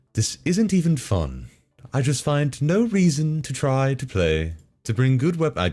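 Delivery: clumsy British narrator accent. Reading a gaming complaint aloud as a narrator, David Attenborough impression. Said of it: "I can't do a good British accent".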